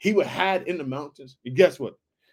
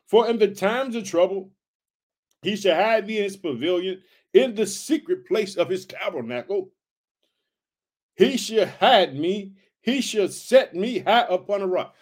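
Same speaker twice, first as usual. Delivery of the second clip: scripture reading; 2 semitones higher than usual. Acted. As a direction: read the verse out with weight. Reads verse five aloud.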